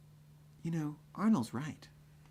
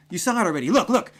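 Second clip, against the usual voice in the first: loud, higher mocking shout; teasing yell; 5 semitones higher, 9 dB louder than usual. Taunting the guard who wants the ID, loud yell. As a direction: keep taunting him.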